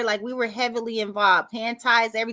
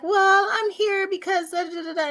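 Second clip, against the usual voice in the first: retold excuse in a raised voice; acted explanation; 8 semitones higher than usual. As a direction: stretch it out high, trailing into filler syllables. Acting own sheepish reply.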